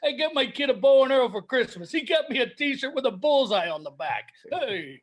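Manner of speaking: lightly voiced put-upon comic; hint of an old-school club comic; Rodney impression. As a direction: trade one-liners as a no-respect comedian. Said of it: "is it time for dueling Rodneys".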